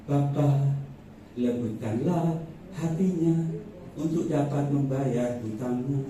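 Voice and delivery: slow, measured prayer to the Father; re-enacted devotional prayer; quiet-time prayer. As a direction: pray it slowly, phrase by phrase. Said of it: "Dalam saat teduh saya berko-, berkata pada Tuhan".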